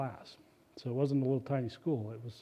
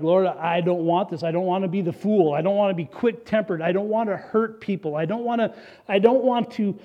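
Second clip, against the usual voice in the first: rising, louder and higher plea to the Lord; pleading prayer; 4 semitones higher, 6 dB louder than usual. Retold or imitated. Retelling his prayer to God, a building plea. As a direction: beg God, building in force.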